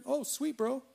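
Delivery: high, easygoing surfer-style okay; breezy. Pretend. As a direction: shrug it off and drive on. Imagined Tony drives away.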